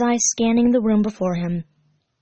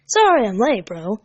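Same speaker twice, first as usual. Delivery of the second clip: Sonic voice; 4 dB louder than usual. Acted. Sonic greets Tails.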